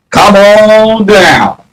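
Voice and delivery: slow, drawn-out come on down; game-show taunt. Acted. Streamer dares trolls to join, slow taunting call. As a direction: beckon like a game show host.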